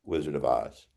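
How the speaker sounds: mock whimper, shrinking away. Wizard turns from the microphone, whimpering softly.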